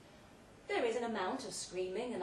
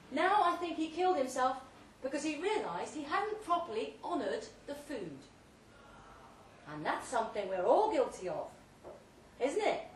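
louder and higher, orating to the guests; booming tale told through a loud hailer; grand loud speech; 4 semitones higher, 5 dB louder than usual. Acted. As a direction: hold forth like a host at a banquet.

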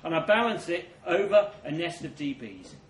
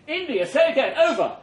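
higher and louder "India, say again, over"; louder urgent radio call; 6 semitones higher, 6 dB louder than usual. Acted. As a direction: repeat the call, more urgent.

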